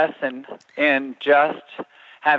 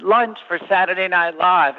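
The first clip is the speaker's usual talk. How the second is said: higher-pitched, brisk announcement; bold delivery call; 6 semitones higher than usual. Retold or imitated. Deliverer bluffing past the biggest guard, bold call-out. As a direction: announce it boldly, like you belong there.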